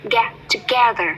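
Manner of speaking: "together" with the middle syllable GE stressed. Shown as a demonstration. Teacher drills word stress, punched middle syllable in "together". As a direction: isolate "Ga", then stress it in "together". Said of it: "Trọng âm của nó đâu rồi?".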